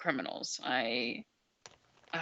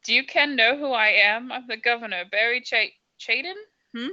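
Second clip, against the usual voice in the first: Scottish governor; 3 semitones higher than usual. Acted. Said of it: "I can't do a voice".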